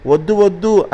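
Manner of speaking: high frightened cry of no; shouting no. Acted. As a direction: pigs crying out from inside the house. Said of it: "అని అరిచాయి లోపల నుండి పందులు". (భయంతో పైస్థాయిలో అరుపు)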